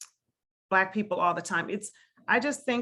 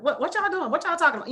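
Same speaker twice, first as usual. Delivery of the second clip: higher, casual Black vernacular; home vernacular; 7 semitones higher, faster than usual. Retold or imitated. Showing how she talks with her kids at home, higher and casual. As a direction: loosen up like talking to your own kids. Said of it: "it's totally, you know, it's like".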